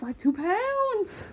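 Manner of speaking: whisper. Retold or imitated. Joking about saddle weight.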